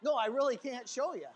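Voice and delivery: loud protest with a laugh; amused protest. Real, not acted. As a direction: laugh while insisting. Laughing at own triple Lindy joke.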